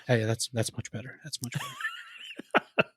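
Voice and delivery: a hint of the halting, drawn-out Goldblum voice, with a laugh; Goldblum impression. Imitating Goldblum for a friend, lightly voiced and laughing. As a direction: lightly imitate Goldblum, pleased with the new word. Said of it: "In the Jerry Jeff Goldblum way".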